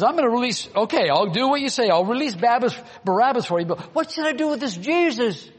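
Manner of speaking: Pilate voiced. Pilate voiced addressing crowd.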